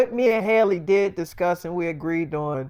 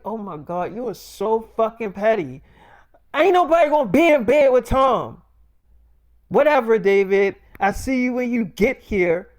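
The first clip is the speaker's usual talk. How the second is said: mock exasperated yell; 4 semitones higher, 4 dB louder than usual. Zendaya yelling then dismissing.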